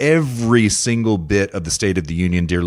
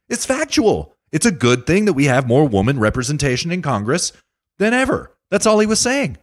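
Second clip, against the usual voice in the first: heated rant; 10 semitones higher than usual. Real, not acted. Impassioned rant defending Trump.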